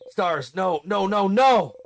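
loud, high denial; panicked cry. Acted. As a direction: gasp out denial. Waking from the loop.

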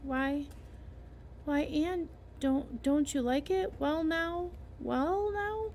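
put-on worried old man fumbling words; flustered Matthew. Matthew flustered by Anne's tears.

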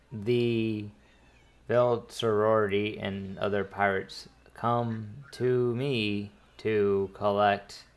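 slow, halting droid voice; lightly robotic, pausing between word groups; droid translator. Acted. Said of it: "the Thorian is speaking to Thorian".

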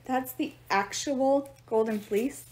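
slow, astonished question; stammering. A narrator's reading. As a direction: drag out the words in stunned disbelief. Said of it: "she stammered".

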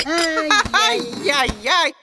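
very slow, drawn-out Eastern lament; central asian russian. Acted. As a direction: stretch every "яй" with an accent. Elder lamenting slowly. (очень медленное причитание с акцентом)

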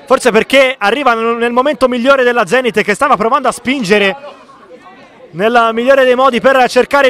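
excited commentary. Real, not acted. Excitement after the goal.

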